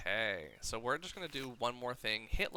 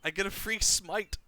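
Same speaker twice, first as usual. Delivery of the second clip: excited; 8 semitones higher, 8 dB louder than usual. Real, not acted. Gamer thrilled by bonus attack.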